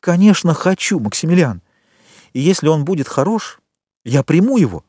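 lightly voiced loving girl; eager young woman. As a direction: tell him how dear he is. Valentine, tender and eager.

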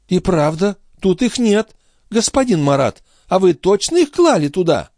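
put-on high, fast fussing old woman; mock-innocent old concierge. A narrator's reading. The concierge pretending not to know where the watch went, high and fussy. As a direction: play dumb, all fluster. Grivette feigns surprise.

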